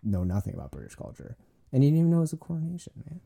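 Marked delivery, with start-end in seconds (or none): 1.7-3.2 fast, high teasing rant; rushed mock scold. Real, not acted. Teasing his wife about the coronation, fast mock scold. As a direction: rattle it off in mock disbelief.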